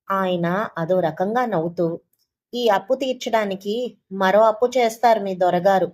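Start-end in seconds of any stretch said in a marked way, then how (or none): 2.5-5.9 a touch of mockery, lightly louder; sarcastic. Lender mocks the husband to his wife, mildly sarcastic. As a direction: sneer at the husband's debts. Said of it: "అన్నారు వెటకారంగా".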